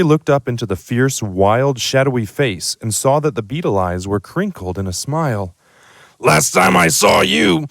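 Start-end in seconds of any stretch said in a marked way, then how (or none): 6.2-7.7 put-on remember him as a baby; fond giant. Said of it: "said the giant".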